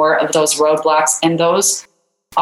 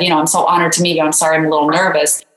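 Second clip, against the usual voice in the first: nervous apology; 2 semitones lower, much faster than usual. Retold or imitated. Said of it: "scared to death that she was visibly shaking".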